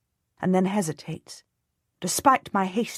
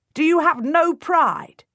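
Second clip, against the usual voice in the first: much higher, loud and slow; voice cracking with rage; 11 semitones higher, 7 dB louder, slower than usual. A narrator's reading. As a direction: shout it till the voice breaks. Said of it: "his voice cracking with rage".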